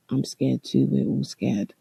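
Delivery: soft, gentle comfort; a hint of a kind shop owner reassuring. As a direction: soothe a frightened stranger. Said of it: "she was so sweet".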